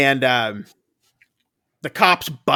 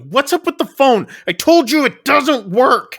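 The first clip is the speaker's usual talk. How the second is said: much higher, mock-shouted taunt; mocking yell; 10 semitones higher, 4 dB louder than usual. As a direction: sneer at the boy, pitch jumped up. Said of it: "yelling at him".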